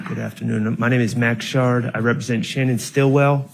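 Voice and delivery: muffled speech through a mask; through face mask. Real, not acted. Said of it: "Can you hear me okay with this mask?".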